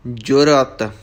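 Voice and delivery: ਜੁਰਤ as "jur-at", second vowel sounded; full second vowel. Shown as a demonstration. Teacher modelling ਜੁਰਤ for learners, second vowel fully sounded. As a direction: say ਜੁਰਤ in two clear syllables, "jo-rat". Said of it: "ਐੜਾ ਵੀ ਬੋਲਣਾ ਹੈ".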